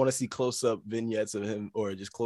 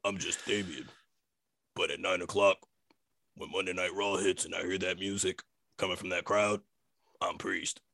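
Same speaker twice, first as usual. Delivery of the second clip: mock Damian Priest; 6 semitones lower, 7 dB quieter than usual. Imitating Damian Priest promo.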